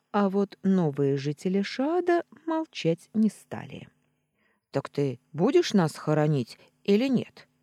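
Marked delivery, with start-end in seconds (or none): 4.7-7.5 defiant. Acted. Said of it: "С вызовом спросил тот".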